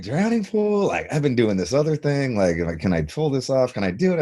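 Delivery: doubting himself about the audition, mock incredulous. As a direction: sound taken aback by the offer. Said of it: "'cause I was just like".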